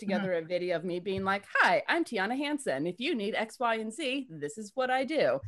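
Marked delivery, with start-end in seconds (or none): 1.6-5.4 commercial voice. Retold or imitated. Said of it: "a quick demonstration of what my commercial voice sounds like".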